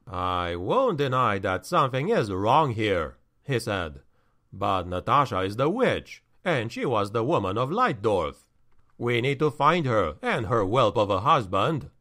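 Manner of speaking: low, grave measured man; steady, serious reply; stern counselor. Acted. Verstolen replies, low.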